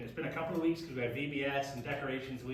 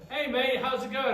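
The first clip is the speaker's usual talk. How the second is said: Australian greeting; 8 semitones higher, 8 dB louder than usual. Retold or imitated. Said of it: "I hear someone say".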